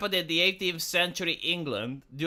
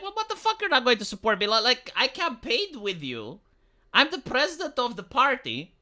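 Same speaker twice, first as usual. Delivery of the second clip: bewildered; 5 semitones higher than usual. Retold or imitated. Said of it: "And she's bewildered".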